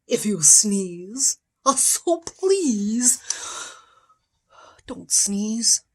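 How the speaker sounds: whispered plea. Acted.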